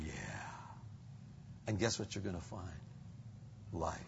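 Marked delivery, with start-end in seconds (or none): 0.0-0.5 contented yeah. Acted. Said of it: "the Spirit will be singing".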